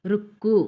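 రుక్కు with the kk held, then released firmly; pressed double consonant. Shown as a demonstration. Teacher explains the conjunct letter, doubled k pressed. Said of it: "కూని ఒత్తి పెట్టి పలకాలి".

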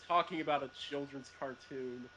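fast mocking jock voice; sneering jock. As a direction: rattle it off with a sneer. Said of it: "those jock characters would hate people like us".

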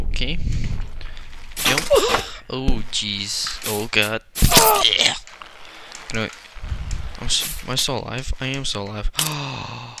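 put-on German accent. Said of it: "I'm doing it right now".

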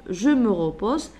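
slow teacher dictation of the example. Shown as a demonstration. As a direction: say it slowly so pupils can write. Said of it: "teacher dictating example".

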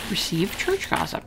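slow whispered reading. Real, not acted. Player reading the choice in a whisper. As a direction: murmur it under your breath. Reading option under breath.

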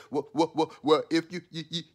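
imitating a nervous stammer, tripping over each word; hammed-up stuttering question; mock stutter. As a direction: stammer it out like he's scared to ask. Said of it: "he goes to stuttering".

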